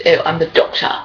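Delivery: lightly put-on Doctor, low and gabbling towards the end; mock Doctor voice. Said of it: "especially talking like, like this".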